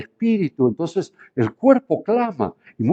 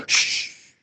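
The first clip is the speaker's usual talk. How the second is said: soft hushed shh, papá is praying; whispered warning to running children; mother's hushing whisper; 5 semitones lower, 5 dB quieter than usual. Retold or imitated. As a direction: hush the kids like a mother at the door. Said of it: "mamá decía".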